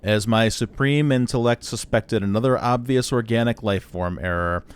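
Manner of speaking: superior, monotone robot; Marvin the paranoid android. Acted. Droid blames player for an error, superior monotone. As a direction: drone with lofty disdain, slowing at the end. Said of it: "this is very clearly Marvin the paranoid android".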